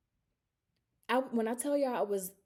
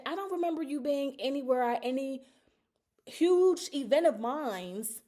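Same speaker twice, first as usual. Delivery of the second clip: rising hurt anger; 3 semitones higher than usual. Retold or imitated. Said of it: "I'm like".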